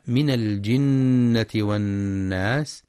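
slow, measured tajweed recitation; Quranic recitation. Shown as a demonstration. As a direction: recite the verse slowly with tajweed. Quran verse recited in lesson. (تلاوة مجودة بطيئة)

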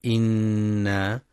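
إنا with a long humming nasal نّ; slow ghunna demo. Shown as a demonstration. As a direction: hum the doubled ن of إنا slowly through the nose. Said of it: "لغنة النون المشددة".

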